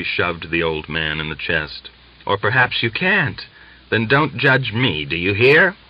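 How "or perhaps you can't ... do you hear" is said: taunting. A narrator's reading. Daria taunting the old man.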